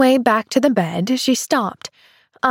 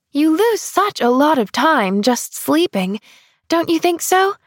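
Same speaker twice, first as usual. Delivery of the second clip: put-on higher, bright-eyed young girl; little girl voice; 8 semitones higher than usual. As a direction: play an eager little girl. Child's voice, eager.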